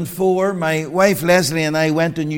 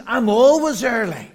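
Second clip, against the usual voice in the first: indignant; 4 semitones higher than usual. Retold or imitated. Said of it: "He was furious".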